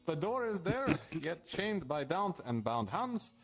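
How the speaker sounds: slow, measured riddle reading; slow verse reading. Acted. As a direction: read it like an ominous prophecy. Reads cryptic riddle verse aloud.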